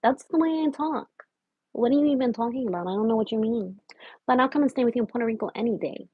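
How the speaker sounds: lightly put-on Spanish accent; casual talk in a fake Spanish accent. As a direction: keep up a mock Spanish accent. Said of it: "my fake accent".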